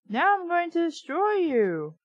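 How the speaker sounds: high, loud mock threat; hammed-up zombie menace; a playful villain roar; menacing monster. A narrator's reading. Moose attacking like zombie.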